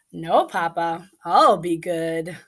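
expressive storybook reading; reading to children. A narrator's reading. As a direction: read it like bedtime story time. Reading picture book aloud.

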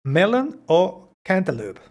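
"Melon" and "cantaloupe" slowly, each stressed at the start; model intonation. Shown as a demonstration. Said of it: "La entonación es importante". ("Melon o cantaloupe", lento, con acento inicial)

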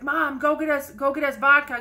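teen hollering at his mom, imitated; mock yell. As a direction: shout it up the stairs at mom, half-playing. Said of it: "he was yelling to his mom".

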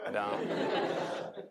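a breathy laugh through the words; laughing sheepish reply. Retold or imitated. Retelling the interview, he laughs out his confession. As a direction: admit it while half laughing.

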